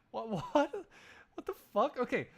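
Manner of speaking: incredulous what. Real, not acted. Streamer reacting to typing mild Edgingworth, disbelieving. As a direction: squeal in shocked disbelief. Shocked at his typo.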